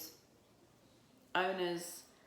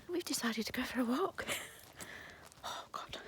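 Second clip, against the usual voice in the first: whispering; 7 semitones higher than usual. Real, not acted. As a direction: whisper so nobody wakes. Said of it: "Don't know why I'm whispering".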